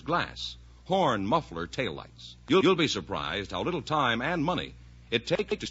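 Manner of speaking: brisk announcer selling safety checkups; ad read. Acted. Announcer pitching the DeSoto Plymouth dealers to listeners, ad read. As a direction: read it like a sponsor spot.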